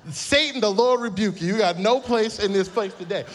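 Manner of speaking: loud, high preacher rebuking the devil; mock rebuke. Pastor jokingly rebukes the Croc like a demon, loud preaching. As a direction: cast it out like a preacher.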